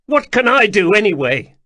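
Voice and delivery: high, loud anguished shout. Acted. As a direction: burst out in frustration. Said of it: "he shouted".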